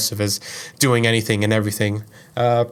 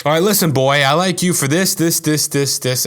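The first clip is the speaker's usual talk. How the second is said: excited confession; 4 semitones higher, 4 dB louder than usual. Retold or imitated. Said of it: "I was just like".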